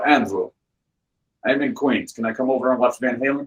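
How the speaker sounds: lightly imitated Russian friend's accent. Russian friend phones to ask to come over, imitated Russian accent. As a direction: mimic a Russian caller. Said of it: "a very thick Russian accent".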